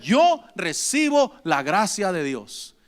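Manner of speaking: slowly, leaning on "Yo recibo"; slow, heavy congregation repeat; slow emphatic repeat. Shown as a demonstration. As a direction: say "Yo recibo la gracia de Dios" slow and firm. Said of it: "Diga conmigo".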